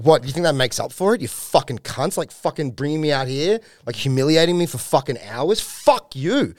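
indignant, rising to a high final outburst; retold angry rant. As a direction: act out an offended tirade. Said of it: "he starts yelling".

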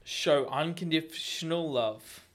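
slow, drawn-out delivery; drawn-out first try at reading the tip; slow botched take. Shown as a demonstration. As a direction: read it too slowly. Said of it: "Let's try again".

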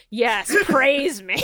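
smug "praise me". Retold or imitated. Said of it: "He'll just be like".

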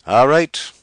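high, loud, exasperated surrender; desperate giving in. Acted. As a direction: give in with exasperation. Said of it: "he agreed desperately".

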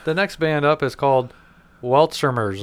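The band name said with an extra syllable, like "welt-ser-merz"; corrected pronunciation. Shown as a demonstration. Co-host showing Brendan how to pronounce the band name, as "welt-ser-merz". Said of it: "let me pronounce it".

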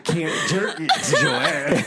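put-on hillbilly accent. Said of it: "What'd you do this weekend?".

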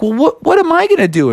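high, fast whining; whiny high voice. Acted. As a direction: protest in a whine. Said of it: "Junior's like".

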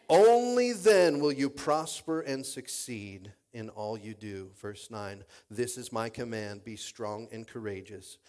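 emphatic opening, settling into low measured reading; deliberate pulpit Bible reading; scripture reading. Acted. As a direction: proclaim the promise, then read it steadily. Reads scripture aloud to congregation.

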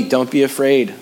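steady comfort after panic; calm reassurance. Shown as a demonstration. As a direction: settle the worrier gently. Answering the worried voice calmly.

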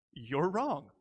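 soft, kindly voiced rebuke; kindly correction. Jesus answering the rich young ruler, kindly. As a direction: break it to them gently, imitating a kind teacher. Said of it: "Jesus very kindly".

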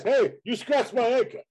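high-pitched indignant movie-character holler; Rodney Dangerfield. Retold or imitated. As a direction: call out the complaint in a comic impression. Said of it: "Yeah, he just says".

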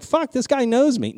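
high, slow wonder; amazed. Retold or imitated. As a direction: gasp it out starstruck. Retelling his own amazement.

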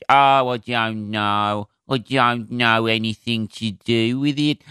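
put-on slow, lightly done Birmingham accent, vague and clueless; a hint of a Brummie receptionist who doesn't care. Imitating a clueless Birmingham venue worker, slow Brummie accent. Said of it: "because of that accent".

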